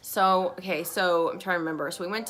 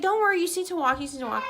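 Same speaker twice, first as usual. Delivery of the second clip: imitating the doula; 10 semitones higher, faster than usual. Doula coaching a tired mother.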